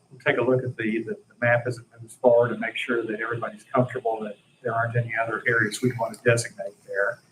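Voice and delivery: rapid-fire, rushing through the words; talking fast. Real, not acted. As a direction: hurry along like an auctioneer. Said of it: "I'm talking like a tobacco auctioneer".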